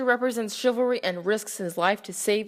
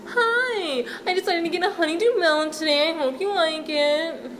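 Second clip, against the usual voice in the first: cheery innkeeper; 7 semitones higher than usual. Acted. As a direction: greet him like an overeager innkeeper. Owner gives honeydew.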